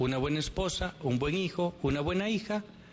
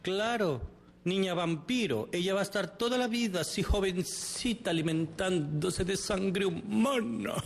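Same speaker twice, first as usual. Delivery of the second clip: mildly high mocking retort; sarcastic mother; 4 semitones higher than usual. Mother mocking her child as an immortal girl, sarcastic.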